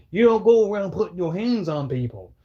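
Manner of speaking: mock his tough-guy warning. Streamer mimics the man in the video, mock tough guy. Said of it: "he's acting like the tough guy".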